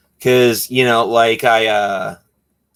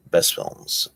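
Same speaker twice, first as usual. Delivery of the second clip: whispered echo. Real, not acted. Whispered echo of own words.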